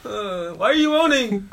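mock cop. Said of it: "The cops go like this".

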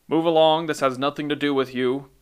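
muffled call through a gas mask. Acted. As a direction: sound blocked by a mask, firm. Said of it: "a muffled voice emanated".

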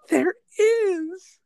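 loud, high triumphant cry; excited. Real, not acted. Host announces the Seinfeld link, loud and high. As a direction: burst out with the discovery.

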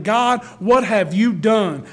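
mild mock cry to God, slow and firm; retold crying out. Preacher voices David crying to God, mildly anguished. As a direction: slowly plead with God, lightly acted. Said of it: "He's crying. He's saying".

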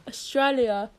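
Australia in a put-on British-style accent; attempted Aussie accent that comes out British; British-sounding accent. Shown as a demonstration. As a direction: demonstrate Australia with a British lilt. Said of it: "You sound British".

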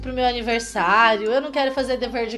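mild imitation of a kid's rambling grievance; lightly voiced complaint that runs on and fades; half-hearted mock child griping; child's bedtime whining. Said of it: "Aquela conversa mole de quem não quer dormir".

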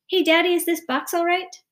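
put-on high, loud child piping up; eager little boy. A narrator's reading. Son asking father about frog's box, eager.

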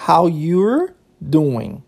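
"How you're doing" drawn out, each word separate; slow word-by-word. Shown as a demonstration. English teacher spelling out a casual greeting, slow and separated. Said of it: "Olha que interessante, ó".

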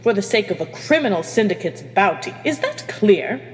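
steely, commanding captain. Acted. Captain refuses to give up her crew, steely. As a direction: lay down the law with steel. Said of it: "The steeliness in Hermione's voice".

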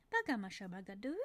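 put-on quick baby babble with a question tune; babble with question intonation. Shown as a demonstration. Therapist showing parents babble with intonation, quick questioning babble. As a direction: babble like a baby asking something. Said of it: "So we might hear something like".

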